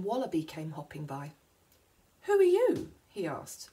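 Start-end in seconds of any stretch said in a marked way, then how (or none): 2.2-2.9 high, loud, haughty challenge. A narrator's reading. Wallaby looking down his nose at Wombat, haughty. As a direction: demand it loudly, looking down your nose. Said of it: "looking down his nose at Wombat".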